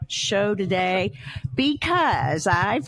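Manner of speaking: show-host intro. Real, not acted. Host introducing the day's guest to listeners, emphatic show opening. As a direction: welcome the audience, stretching the big words.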